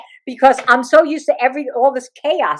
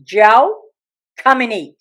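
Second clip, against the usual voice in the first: curt mother; 6 dB louder, slower than usual. Retold or imitated. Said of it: "this is what I heard all the time".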